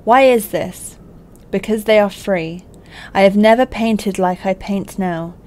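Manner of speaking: put-on a light, slightly theatrical letter reading, no accent. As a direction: read it out like a friend's heartfelt letter.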